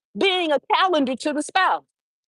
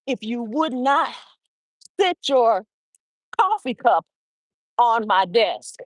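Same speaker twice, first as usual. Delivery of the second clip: firm but polite. Shown as a demonstration. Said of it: "it can be firm".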